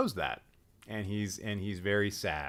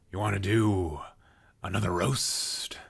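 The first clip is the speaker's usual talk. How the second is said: whisper; 4 dB louder than usual. Acted. Teasing hype for the roast.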